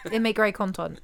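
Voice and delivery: "content" with a French-style ending; French-sounding content. Real, not acted. Partner offering to film him, French-sounding "content". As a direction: slip into French on the word "content". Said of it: "did you just say content".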